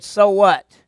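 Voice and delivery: a loud, careless brush-off; defiant shrug. Acted. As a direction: toss it off like it doesn't matter. King Saul shrugging off his sin.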